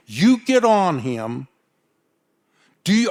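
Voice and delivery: retold dressing-down, pitched a little high; stern scolding. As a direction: lay down the orders firmly, like a fed-up boss. Acted chewing-out of young rider.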